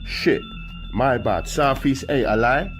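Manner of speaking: high, loud apology; shouting. Acted. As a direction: call it back across. Calling out window.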